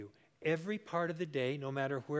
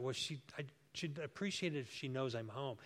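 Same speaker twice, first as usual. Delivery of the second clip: inner thought; 6 dB quieter than usual. Retold or imitated. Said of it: "I just thought".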